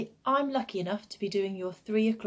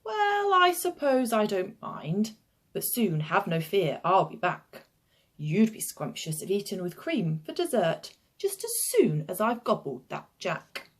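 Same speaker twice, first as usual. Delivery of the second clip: reluctant hungry giant. Acted.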